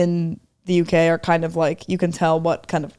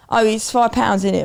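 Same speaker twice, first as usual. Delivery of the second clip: British cashier. Retold or imitated. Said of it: "she says something like".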